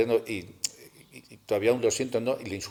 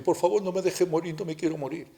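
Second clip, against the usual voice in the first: crying plea; 6 semitones higher than usual. Retold or imitated. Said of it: "cuando estaba llorando, mirando, me decía".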